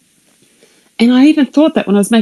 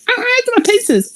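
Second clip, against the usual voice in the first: son calling out. Retold or imitated. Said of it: "head out the window going".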